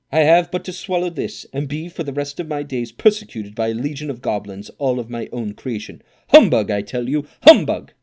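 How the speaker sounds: loud, high, building to a shouted humbug; defiant shout. Acted. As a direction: shout down your own terror.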